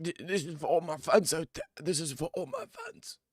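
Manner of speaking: high, tearful-sounding mock of a fighter; mocking Izzy. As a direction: parody him getting emotional for the fans. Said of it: "he's like".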